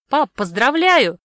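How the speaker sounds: loud, slow congratulating call. Acted. Daughter calling to dad across the room, loud. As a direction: call out so dad hears from afar. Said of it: "крикнула я".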